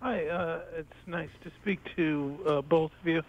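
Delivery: hoarse, fading voice; losing his voice; raspy whisper. Real, not acted. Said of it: "I'm losing my voice a little bit".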